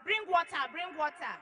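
mildly voiced shout for water; retold shout. Husband calling for water, mild mock shout. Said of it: "my husband was shouting".

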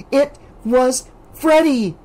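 high, slow, firm claim; insistent. A narrator's reading. Alice insisting to Debbie, high and slow. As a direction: insist it flatly. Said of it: "Alice insisted".

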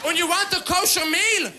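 shouting, pushy mother voice; mock-angry family scolding. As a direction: bark it like a bossy mom.

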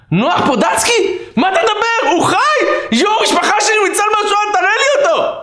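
very high acted cry of amazement; astonished joy. Rabbi claiming the patient as surviving family, high astonished shouting. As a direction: exclaim as if a lost relative is found.

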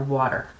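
water, American way, d-like middle. Shown as a demonstration. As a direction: say water with a tapped t and r ending. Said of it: "sounds like it's spelled W O O".

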